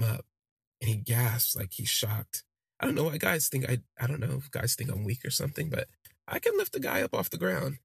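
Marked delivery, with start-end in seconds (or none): 2.8-7.8 higher-pitched, quick defensive aside; indignant protest. Acted. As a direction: protest it, pitch climbing as you defend yourself. Narrator protests being thought weak.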